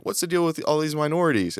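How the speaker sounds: stand-up joke voice. Retold or imitated. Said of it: "telling me this joke".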